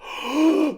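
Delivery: high, sudden intake of breath; excited gasp. Real, not acted. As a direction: gasp with delight at the mention. Excited at mention of toy.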